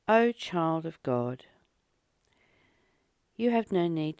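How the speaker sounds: unhurried spiritual text reading; devotional reading. Acted. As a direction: read each line as if it matters deeply. Reads the Course text aloud.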